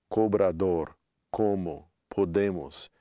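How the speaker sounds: "cobrador, como, podemos" word by word with closed o. Shown as a demonstration. Teacher listing examples for learners, closed o in "cobrador, como, podemos". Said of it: "the closed sound of O".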